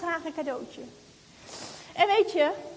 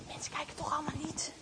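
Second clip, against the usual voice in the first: softer conspiratorial whisper; 11 dB quieter, faster than usual. Acted. Girl about to take the doll, secret whisper. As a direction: whisper so the shop can't hear.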